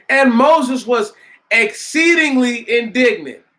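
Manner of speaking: scripture reading. A narrator's reading. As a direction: declaim the verse to the congregation. Reads scripture aloud to congregation.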